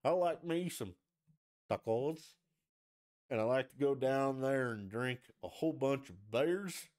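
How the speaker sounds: hammed-up casual talk with an affected "tacos"; mocked accent-switcher. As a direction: imitate someone showily switching accent on "tacos". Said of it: "But if you're like".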